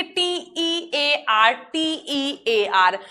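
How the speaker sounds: letters spelt out slowly; slow spelling out. Shown as a demonstration. Teacher spelling the word letter by letter, slow. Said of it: "देखिए".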